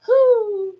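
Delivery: high, yelping mock dog whine; imitated dog cry. Dog crying from the couch, a high yelping whine. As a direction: squeak it out like a stuck little dog. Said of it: "And I hear".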